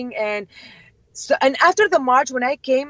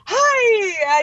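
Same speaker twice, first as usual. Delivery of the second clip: squealed high hi; mock squeal of delight; excited hi; 11 semitones higher, 4 dB louder than usual. Vivian greeting a fan, high excited hi. Her own excited reply, retold.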